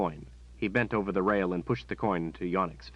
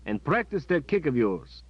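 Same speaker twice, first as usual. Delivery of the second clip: louder call across the hall; calling after; 7 semitones higher, 4 dB louder than usual. Acted. Captain calling after the departing boy, louder. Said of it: "the captain called after the boy".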